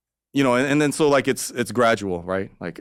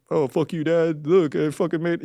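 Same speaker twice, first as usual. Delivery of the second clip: defiant to dad; 9 semitones higher than usual. Retold or imitated.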